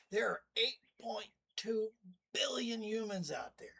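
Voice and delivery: hushed secret whisper; conspiratorial whisper to viewers. Acted. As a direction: lean in and whisper the number. Telling a secret figure.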